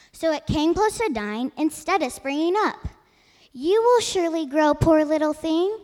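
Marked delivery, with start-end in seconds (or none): 3.5-5.8 kind. Acted. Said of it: "said the sun kindly".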